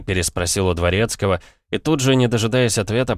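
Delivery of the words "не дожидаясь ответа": ordinary delivery, nothing marked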